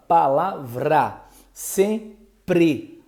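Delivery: Palavra and Sempre said slowly, consonant clusters clear; slow demo words. Shown as a demonstration. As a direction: pronounce each example slowly. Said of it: "o P e o R junto". ("palavra" e "sempre" devagar, destacando o encontro consonantal)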